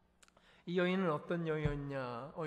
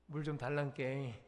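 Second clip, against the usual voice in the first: Jeolla dialect; 4 semitones lower than usual. Retold or imitated. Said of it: "전라도 말로".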